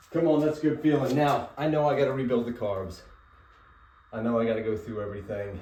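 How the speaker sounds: breathless after kicking the bike; out of breath. Real, not acted. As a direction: talk out of breath, catching air. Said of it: "Sorry, I'm out of breath".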